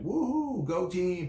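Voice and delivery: squealing high, hammed-up go-team cheer; shrill fake rah-rah cheer; mock cheerleader hype. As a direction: parody an over-the-top network marketer. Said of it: "that are like".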